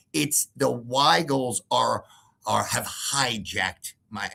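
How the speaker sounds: mocking mother. Mocking the other mother's excuses.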